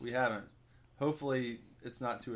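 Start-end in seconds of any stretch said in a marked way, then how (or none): 0.0-0.5 talking while eating; words round a bite of pizza; mouth full. Real, not acted. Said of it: "not talk with my mouth full".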